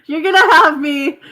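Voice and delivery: laughing, high and loud; cracking up while talking. Real, not acted. Laughing at accent teasing.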